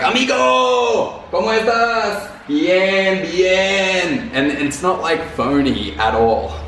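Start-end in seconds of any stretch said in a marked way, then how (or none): 0.0-4.3 high, slow, beaming Spanish greeting from the lobby porter; cheerful Colombian doorman. Retold or imitated. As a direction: greet him like a warm, happy portero, much higher. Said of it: "he's like".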